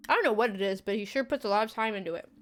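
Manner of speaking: talking with cheese in mouth; words around a bite; mouth full. Real, not acted. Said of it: "I got the salty taste of cheese in my mouth".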